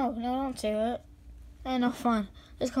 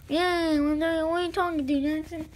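imitated voice; 4 semitones higher, 4 dB louder than usual. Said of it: "someone like this".

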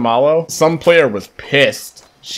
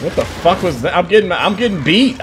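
ordinary talk, nothing marked

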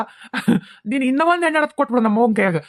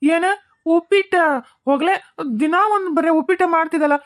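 disgusted surprise; 6 semitones higher than usual. Acted. Son groans at upma again.

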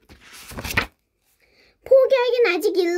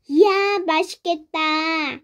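drawn-out, singsong mock delight; 태연한 척; slower than usual. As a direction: overact casual delight, stretching the words. (길게 늘여 과장되게 감탄)

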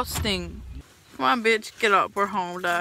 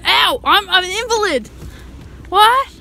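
rowdy party animal; 7 semitones higher, 5 dB louder than usual. Real, not acted. Drunk loud night out, shouting.

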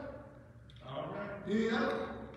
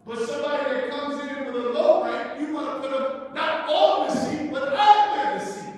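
rising preached punchline; 2 semitones higher, 5 dB louder than usual. Real, not acted. Preacher mocking low-rank treatment.

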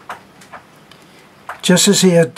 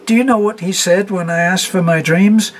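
high, louder, rising near-hysterical question; gasping again; 5 semitones higher, 4 dB louder than usual. A narrator's reading. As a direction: push it higher, laughing through tears. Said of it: "she gasped".

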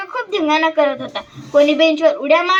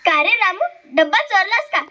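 put-on gentle teacher coaxing a child; affectionate questioning; 2 semitones higher than usual. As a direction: ask kindly, without pressure. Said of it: "त्याला प्रेमाने विचारतात".

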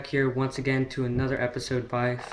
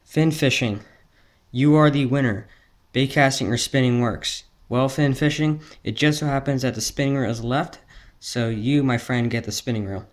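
hyped giveaway announcement; 5 dB louder than usual. Real, not acted. Announcing second giveaway winner.

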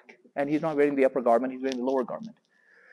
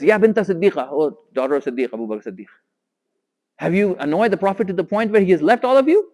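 raised, louder upset challenge; upset demand; 4 semitones higher, 7 dB louder than usual. Retold or imitated. Umar confronts Aisha about upsetting the Prophet, upset and loud. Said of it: "Like, he's upset".

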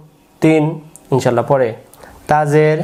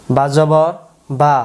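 slow, drawn-out syllables; slow spelling drill; much slower than usual. Shown as a demonstration. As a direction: recite it slowly for learners to copy. Spelling drill recited for learners. (টেনে টেনে ধীরে বানান)

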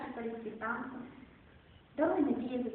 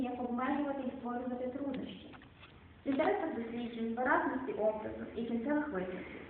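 poetry reading. Acted. Recites Szymborska poems.

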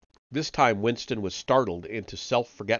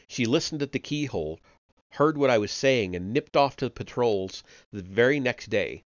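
a lightly raised, pleading voice for the frightened Parsons; a hint of a nervous, eager-to-please chap; anxious Parsons. Parsons begs Winston for reassurance in the cell, lightly voiced and anxious. Parsons talks about his daughter.

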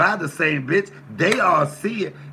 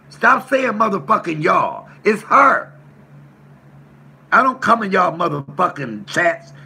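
angry outburst; 3 semitones higher, 5 dB louder than usual. Real, not acted. Ranting about one person.

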